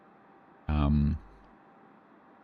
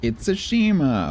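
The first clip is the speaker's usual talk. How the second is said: alarmed surprise; 11 semitones higher, 3 dB louder, slower than usual. Real, not acted. Spotting a dangerous enemy ship.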